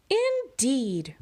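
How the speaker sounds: prim rascal. Acted. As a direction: answer primly. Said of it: "replied the rascal".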